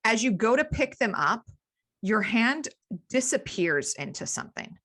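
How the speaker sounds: measured, deliberate scene setting; game master narration. Acted. Game master describes found cloth.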